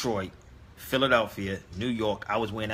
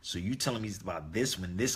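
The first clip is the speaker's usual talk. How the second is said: calm retort; 2 semitones lower than usual. Retold or imitated. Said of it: "I was very calm with him".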